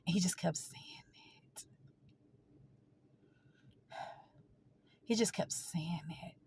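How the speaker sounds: real grief, voice sinking to a whisper; nearly voiceless, holding back tears; very soft, breaking off mid-sentence; choked up. Real, not acted. Choking up while recalling brother's grief.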